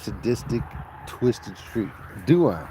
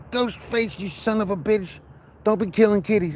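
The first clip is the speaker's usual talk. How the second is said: mock scolding; 8 semitones higher than usual. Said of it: "I'm like".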